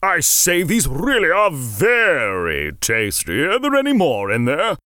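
a greedy little creature savouring a treat; cupboard creature voice. Acted. Hidden creature voiced by narrator.

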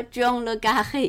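"Carré" said the French way, slowly, stress on the end; careful French "le Carré"; French pronunciation. Shown as a demonstration. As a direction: give "John le Carré" its French sound, unhurried. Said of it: "因为那个 Carré是法文的音".

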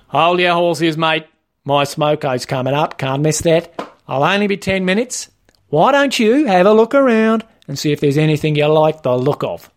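lightly voiced casual shop trainer; Wayne, laid-back trainer. Trainer putting off the learner for his smoko, offhand. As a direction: put him off, casually and matey.

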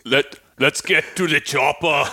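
slow mock Austrian action-hero voice; Arnold Schwarzenegger. Co-host pressured into an impression, slow Austrian accent. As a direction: drag it out in a hammy Austrian accent. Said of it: "can probably do Arnold Schwarzenegger".

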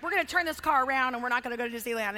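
rapid-fire low parental threat; mock terrorist-mode parent; threatening parent. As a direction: rattle off an empty threat. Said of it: "we're threatening and we're like".

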